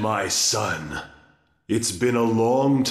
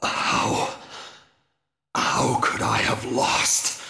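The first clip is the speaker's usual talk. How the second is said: dying disbelief. Acted. Defeated Dracula in disbelief.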